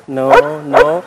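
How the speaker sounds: NO said drawn out, without a forbidding edge; unscolding no. Shown as a demonstration. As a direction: say no so the dog feels no reprimand. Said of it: "nggak merasa kalau dilarang".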